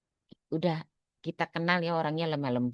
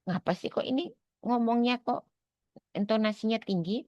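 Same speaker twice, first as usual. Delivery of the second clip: higher, indignant voicing of an offended listener; offended complaint; 9 semitones higher than usual. Sumatran listener offended by a Sundanese speaker, indignant. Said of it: "akan merasa tersinggung gitu ya".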